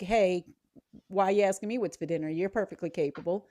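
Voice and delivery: fast, lightly snarky retort to a text; mock-irritated comeback, quick.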